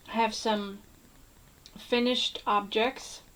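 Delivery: talking around a mint; words slightly thick from a mint; mint in mouth. Real, not acted. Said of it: "Sorry, I have a mint in my mouth".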